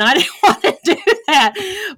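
real chuckle breaking into the line; amused, laughing admission. Real, not acted. Laughing at own reluctance.

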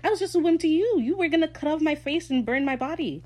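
high, loud, incredulous comeback; mock indignant outburst. Steve throws Ed's accusation back, indignant. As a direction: hurl it back in acted outrage.

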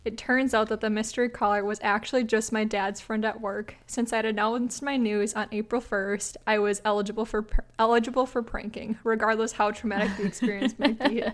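measured, even read-aloud voice; story narration. A narrator's reading. Host reading a listener's prank story to co-host, measured narration. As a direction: read it out like a short anecdote.

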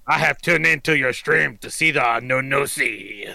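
careful, stiff tourist reading from a phrasebook; halting phrasebook tourist. Pretend. Mock formal stream greeting.

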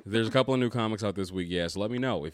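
quick, breezy delivery; fast casual read. Shown as a demonstration. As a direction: rattle it off casually. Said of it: "Or I can do something like this".

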